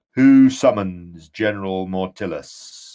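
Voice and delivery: deep booming general's voice; deep echoing underworld god. Acted. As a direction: boom it out like an ancient warlord. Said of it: "in a deep voice, um, booms out".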